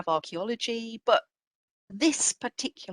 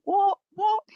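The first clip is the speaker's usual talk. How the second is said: much higher and louder, mock disbelief; incredulous objection; 8 dB louder than usual. Maritime historians in the audience protesting, mock incredulous outcry. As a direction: play the scandalised expert, half in fun. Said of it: "maritime historians amongst you who are going".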